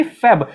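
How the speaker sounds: फेब said "feb", with e not a; English "Feb" syllable. Shown as a demonstration. Teacher spelling it out, English "feb". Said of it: "English में फेब होता है".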